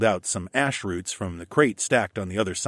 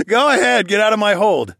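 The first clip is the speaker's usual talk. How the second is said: loud taunting dare; challenging; 11 semitones higher, 8 dB louder than usual. Acted. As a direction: dare him to break free. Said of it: "I challenged".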